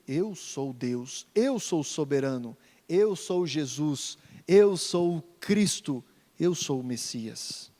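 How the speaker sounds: low, slow, solemn declaration. Acted. Preacher voicing Jesus' claim, low and solemn. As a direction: lay each I am down with weight. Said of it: "o que Jesus está dizendo".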